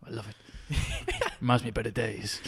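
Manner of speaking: lightly played noir voice-over; understated Sin City monologue; noir narrator. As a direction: muse softly like a detective remembering. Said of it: "yeah, like that, like Sin City".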